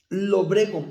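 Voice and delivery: "lobrego" with the accent on its first O; stress on the O. Shown as a demonstration. Preacher teaching the congregation a word, first O stressed in "lobrego". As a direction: stress the opening syllable of "lobrego". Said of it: "con acento en la O".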